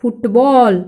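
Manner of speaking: फुटबॉल sounded out with a long बॉल; pronunciation demo. Shown as a demonstration. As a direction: model फुटबॉल for pupils. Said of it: "उच्चारण कैसा होगा देखो?".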